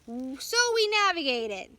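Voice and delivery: a curt, mild snap; understated sharp retort; snapped. A narrator's reading. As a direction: cut him off, lightly defiant. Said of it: "Nate snapped".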